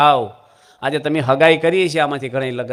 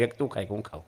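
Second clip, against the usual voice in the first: happy Tukaram; 6 semitones lower, 13 dB quieter than usual. Retold or imitated. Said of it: "Tukaram ખુશ થઈ ગયા".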